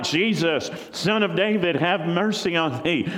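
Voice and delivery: high pleading call across a crowd; crying out. Acted. Blind beggar calls to Jesus over the crowd, pleading cry. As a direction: call out to be heard over everyone. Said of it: "And he starts crying out".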